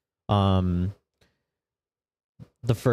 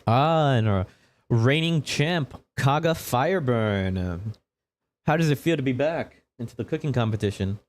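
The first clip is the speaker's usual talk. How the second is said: higher, lilting presenter voice; showy TV interviewer; 4 semitones higher than usual. Acted. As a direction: announce the champ with showmanship, stretching the name.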